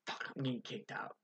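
muttered to himself. Retold or imitated. Student thinking he's in trouble, muttered aside. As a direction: mutter it like a private panic. Inner thought when called aside.

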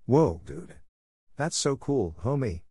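high, awed praise for a friend; light amazement at the big hit; amazed. A narrator's reading. C-Payne to a teammate, in light amazement. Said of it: "in amazement".

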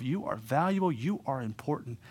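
soft, slightly slowed reassurance; tender. Retold or imitated. Jesus speaking to the woman with gentleness, tender. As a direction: gently affirm someone's worth. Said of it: "spoke with a tender and a tone".

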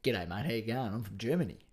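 low, soft, lightly put-on Australian actor; laid-back low mock impression; Brian Brown. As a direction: understate a German-accent impression as pure Aussie. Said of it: "my impression of Brian Brown doing a German accent".

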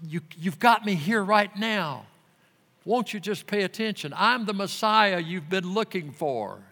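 mildly mournful appeal to the city; lightly voiced Jesus. Jesus pleading with Jerusalem, a touch of sorrow. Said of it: "he's saying".

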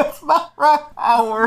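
high, laughing protest; laughing at the wrong answer; laughing correction. Real, not acted. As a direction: say it while still laughing. Laughing at assistant's mistake.

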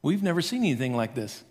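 deadpan with a laugh; mock flat crowd. Crowd's bland reaction, mocked with a laugh. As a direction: say it underwhelmed, laughing. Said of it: "they said this".

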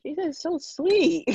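high, slow gushing coo. Real, not acted. Friend gushing about her friend's mom, cooing high and slow. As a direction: melt over how sweet she is.

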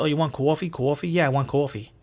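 "coffee" with a long New York "aw" vowel; New York pronunciation. Shown as a demonstration. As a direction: say "coffee" as "caw-fee", New York style. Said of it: "That's how we say coffee".

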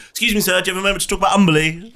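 quick, bright charity-collector pitch; street fundraiser. Acted. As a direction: rattle off a chugger's pitch. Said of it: "just going".

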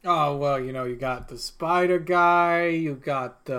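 put-on unhurried New York accent; casual bartender with a New York lilt; New Yorker bartender. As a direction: chat like a local New York barman. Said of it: "this guy's turned into a New Yorker".

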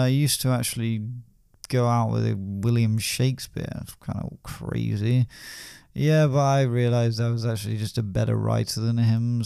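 lightly voiced tipsy braggart, trailing off; a hint of a smug drunk showing off; boastful drunk poet.

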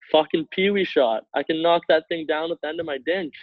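mocking angry coach. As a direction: sneer at the weak shot like a pissed coach. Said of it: "he's dead serious".

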